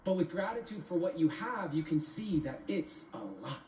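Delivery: rhythmic, deliberate poetry recital; spoken-word poem. Acted. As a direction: perform it as spoken word, riding the rhymes.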